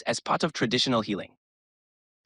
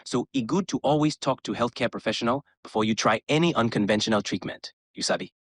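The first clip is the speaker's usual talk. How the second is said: West African pidgin. Pretend. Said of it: "speaking in West African pidgin".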